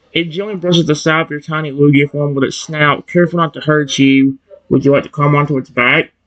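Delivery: ordinary delivery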